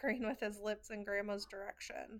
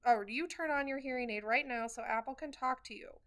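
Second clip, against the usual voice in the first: grandma shouting; 2 semitones higher, 4 dB louder than usual. Retold or imitated. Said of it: "my grandma shouts at Grandpa".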